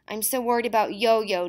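high, tearful voice breaking with worry; a girl sobbing to her friend's mother, tearful. A narrator's reading. Girl sobbing to her friend's mother, high and tearful. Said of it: "Delia sobbed".

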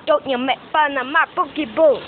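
playful mock indignation; mock indignant. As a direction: defend them with fake outrage. Mock defending his Pokeballs.

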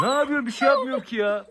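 high cooing to calm a skittish kangal; pet talk to dog. Real, not acted. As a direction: sweet-talk a fussy pup. Soothing fussy dog Antika.

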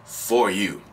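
low-voiced, smooth promises from a cheater; married man promising. Married narcissist promising a lover a future, low-pitched. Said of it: "let's say I, I'm married and whatever. I'm promising".

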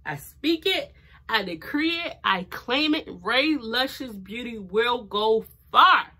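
rhythmic faith declaration, slowing on the brand name; emphatic declaration. Real, not acted. Vlogger claiming success for her beauty brand, emphatic declaration. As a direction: proclaim it with conviction, phrase by phrase.

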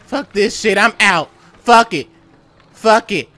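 panicked. Real, not acted. Fleeing in panic.

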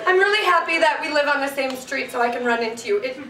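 awkwardly earnest, halting talk to a dog; regular-person voice. Acted. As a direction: address the dog like an adult friend. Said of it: "talk to him like a regular fucking person".

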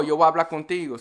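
"voy a hablar" squashed quickly into "wa blá"; fast, run together. Shown as a demonstration. Teacher showing how it would sound, fast and slurred together. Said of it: "they talk really fast".

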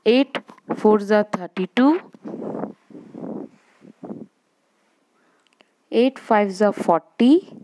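chanted times table, each line rising; slow sing-song recitation for the class; slow school dictation. Shown as a demonstration. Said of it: "I will read".

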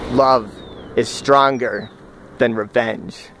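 slow, measured declaration with long pauses; solemn mantra. Shown as a demonstration. Man at the fire slowly declaring his mantra. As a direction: lay each word down slowly like a vow. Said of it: "declaims his mantra".

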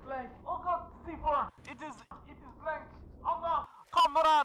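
hammed-up Russian accent, broken English; mock Russian accent, gamer joking; fake Russian accent. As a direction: play a comic Russian comrade in a Russian accent. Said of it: "doing this accent".

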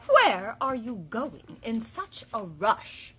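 slow, drawn-out hen squawk. A narrator's reading. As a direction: stretch it out like an indignant hen. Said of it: "she squawked".

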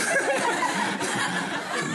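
high unvoiced laugh bursting out; breathy laugh. Real, not acted. Speaker cracking up telling the audience, high laugh. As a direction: laugh helplessly at yourself. Laughing at own frustration story.

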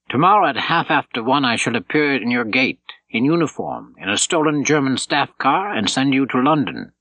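a hint of a commando leader laying out the plan; lightly voiced commando leader. Buch gives Count the plan.

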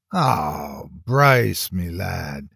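a put-on Irish lilt, hammed up; a fake Irish brogue to dodge the chief; phony Irish accent. Detective teasing his chief in a phony Irish accent. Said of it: "don't give me that phony Irish accent".

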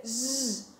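Z said as a sustained "zh" buzz; second sound of G. Shown as a demonstration. Teacher showing children the letter's other sound, Z as a long "zh". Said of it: "também ele pode ser".

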